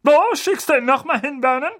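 high, loud demanding aunt; overbearing aunt. Acted. Aunt asking her brother about Harry's school. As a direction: demand the answer. Magda asks Vernon.

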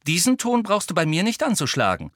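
composed, offended rebuke; cool reproof. A narrator's reading. Ginny rebuking Harry for his tone, cool. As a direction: put him in his place coolly. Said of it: "sagte sie kühl".

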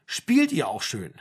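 slow, sugary imitation of the pastor; mock pastor. Mother mimics the pastor talking to the kids, mockingly slow. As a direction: drag it out mocking his sweetness. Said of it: "Das hat er zu denen gesagt".

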